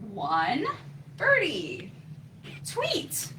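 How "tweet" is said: very high little chirp; baby bird tweet. Acted. Baby bird number one calling for mommy, high tweet. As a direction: peep like a tiny chick. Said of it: "said baby bird number one".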